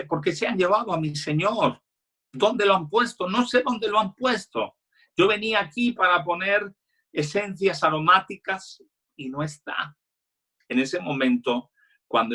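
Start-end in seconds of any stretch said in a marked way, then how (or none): 0.0-10.0 high-pitched distressed plea, no real sobbing; acted tearful plea. Weeping Mary explains her Lord was taken, acted distressed plea. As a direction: voice her upset lightly, pitched well up. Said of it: "cuando ella está llorando".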